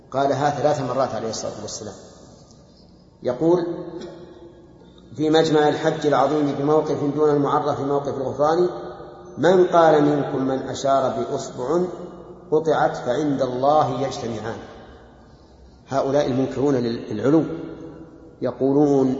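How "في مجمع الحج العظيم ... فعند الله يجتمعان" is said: measured poem reading, slowing down; verse recitation. Acted. Teacher resumes the poem for students, measured verse recitation. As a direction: recite the verses in metre, slower towards the end.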